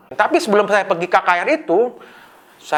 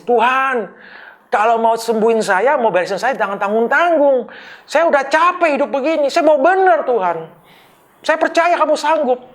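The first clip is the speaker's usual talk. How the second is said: a pleading cry, voice pitched up high; tearful pleading prayer; 8 semitones higher than usual. Retold or imitated. A recovering addict crying out to God in church, pleading high. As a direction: beg God from the heart, near tears. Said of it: "hati saya menangis".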